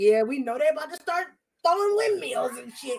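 excited, hyped-up shouting. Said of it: "we was excited about that".

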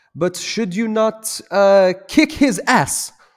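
high, slow broken English. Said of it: "in kind of broken English was like".

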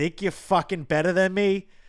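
put-on South Boston accent, very high, shrill and loud. Explaining Boston accents, the speaker imitates someone from Southie: South Boston accent. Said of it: "a Southie is the one that you're gonna hear being like".

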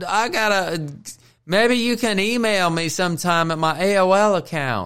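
very high, slow put-on little old man voice. Retelling how he pretended at the forward tees; little old man voice. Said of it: "pretend like I was a little old man. Talk like this".

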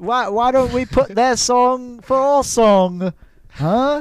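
British accent impression. Answering a question, the speaker tries their only British impression: British accent impression. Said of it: "That's my only British impression".

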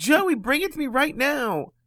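mock very high, loud calling shout. Retelling the mom calling again across the lot: imitating mom shouting. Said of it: "shouting across the parking lot".

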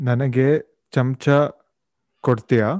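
normal talking voice

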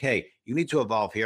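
ordinary delivery

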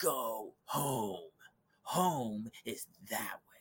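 acted seething, furious, very slow speech. Retelling what she said through the window: imitating someone very angry. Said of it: "she's so angry".

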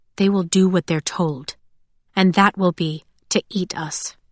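ordinary delivery

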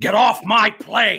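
drawn-out words, loud and high. Doing an impression of a famous line to break tension: Harrison Ford impression. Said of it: "the only impression that I can do, which is Harrison Ford".

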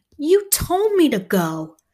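sharp, high, swooping cry of protest. The narrator breaks into the adults' talk about leaving school, crying out. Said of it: "I cry out".

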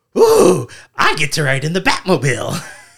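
loud, high villain voice swooping up and down. Retelling a scene where the Joker gets to ride along: Joker voice. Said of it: "the Joker comes back. He's like".

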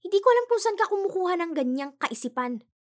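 very high furious voice. Nadja answers Brandon as he holds her face tightly, said angrily. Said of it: "pagalit niyang sinabi".

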